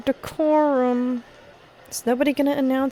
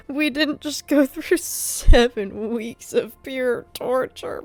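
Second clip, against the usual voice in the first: relieved outburst; 5 semitones higher than usual. Real, not acted. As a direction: voice jumps much higher on relief. Relief after long wait.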